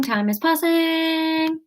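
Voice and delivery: drawn out, time is passing, slowed and hushed; slow dreamy time passing. Shown as a demonstration. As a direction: stretch it out like time drifting by. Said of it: "pause there".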